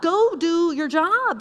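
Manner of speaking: acted stern command; mean scolding. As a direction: order it sharply, word by weighty word. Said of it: "say it as mean as I'm saying it".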